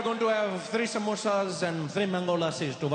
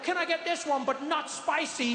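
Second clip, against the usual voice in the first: timid white customer; 5 semitones higher than usual. Retold or imitated. Mocking white friends ordering.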